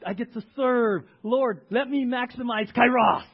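acted grateful prayer, building to loud fervour; eager kairos prayer. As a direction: pray it eagerly, swelling to a big finish. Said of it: "Or is it kairos?".

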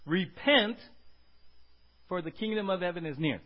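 loud call to repent, then settling; proclaiming as Jesus. Acted. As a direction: announce it like a prophet. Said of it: "Now it's Jesus".

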